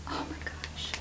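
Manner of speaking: awed breathless whisper. Real, not acted. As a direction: barely breathe the words. Overwhelmed after a long pause.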